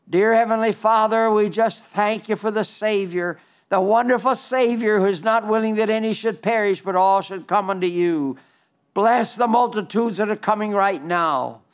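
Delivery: earnest pastoral prayer voice. Acted. Preacher praying for the persecuted church over music, earnest. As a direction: lay each request before God steadily.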